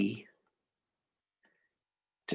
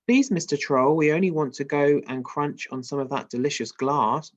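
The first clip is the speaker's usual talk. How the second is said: put-on pleading baby goat; 4 dB louder than usual. Reading the goat's plea.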